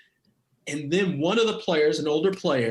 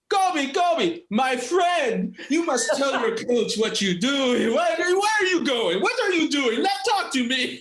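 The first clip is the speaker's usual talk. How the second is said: imitated excited coach; 9 semitones higher than usual. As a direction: gush like the coach chasing his player. Coach catches player after game.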